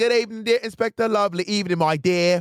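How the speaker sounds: cartoonish, heavily laid-on Cockney accent, pitched high. Describing the original Gavroche actor's accent, cartoonish Cockney Gavroche voice. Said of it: "It's like a cartoonish Cockney accent".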